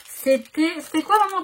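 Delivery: high, loud call into the next room; calling out to mum. Real, not acted. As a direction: shout the question across the flat. Calling to mother off camera.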